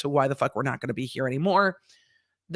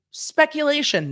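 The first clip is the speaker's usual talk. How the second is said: "Speculation" high and drawn out; disclaimer call-out; 10 semitones higher, 3 dB louder than usual. Acted. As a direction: announce "Speculation" like a slow warning. Announced disclaimer to the audience.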